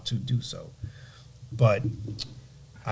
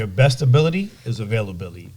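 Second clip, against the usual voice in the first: deliberate motto read to camera; delivered nugget. Shown as a demonstration. Addressing the camera with a motto for the viewers. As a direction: say it like a slogan to the viewers. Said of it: "look in your camera and give that nugget".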